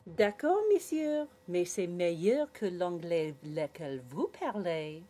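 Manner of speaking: put-on cheeky girl answering back; sassy little girl in French.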